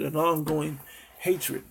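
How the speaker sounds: ongoing drawn out slowly; slow emphasis. Shown as a demonstration. Preacher explaining perpetual to his listeners, slow and emphatic. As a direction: spell out the meaning slowly. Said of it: "That's perpetual means".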